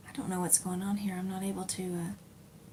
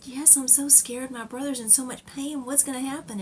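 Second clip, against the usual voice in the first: retold fear; 5 semitones higher than usual. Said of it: "And I said".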